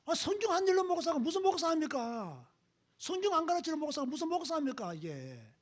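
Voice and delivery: indignant outburst. Real, not acted. Indignant rhetorical questions to congregation.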